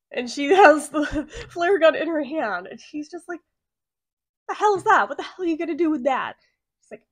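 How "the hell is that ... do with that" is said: loud, quick, startled protest; alarmed outburst. Retold or imitated. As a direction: blurt it out in alarm. Man alarmed by flare gun.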